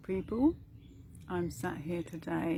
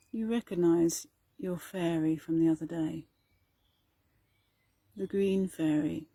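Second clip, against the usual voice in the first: calm, even meditation delivery with long pauses; guided meditation. Acted. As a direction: gently guide listeners inward, leaving space between phrases.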